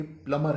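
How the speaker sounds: प्लमर with silent b, PLUM-er; correct "plumber". Shown as a demonstration. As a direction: say प्लमर without the b. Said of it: "असल तलफ़्फ़ुज़".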